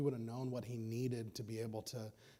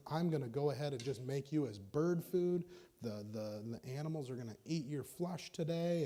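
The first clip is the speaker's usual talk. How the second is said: louder, higher, menacing taunt; threatening giant; 3 semitones higher, 6 dB louder than usual. Acted. Goliath threatening David, loud and menacing. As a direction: bark the threat down at the boy. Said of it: "Goliath threatens him".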